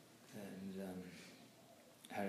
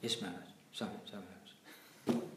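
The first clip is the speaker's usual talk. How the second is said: meek apology; 4 semitones lower, 7 dB quieter, much faster than usual. Retold or imitated. Meek apology after scolding.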